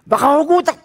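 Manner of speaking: high, loud joking panic; mock alarm. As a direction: play up the danger for laughs. Joking fear.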